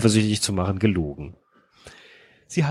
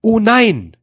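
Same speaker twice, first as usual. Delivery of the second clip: dramatic heroine; 10 semitones higher, 4 dB louder than usual. Acted. Reading the heroine's line.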